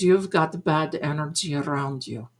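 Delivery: lightly put-on Madame Blavatsky accent; mock psychic accent. Psychic diagnosing bad energy, fake accent. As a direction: imitate the psychic's accent, on an even tune. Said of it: "I have that Madame Blavatsky accent".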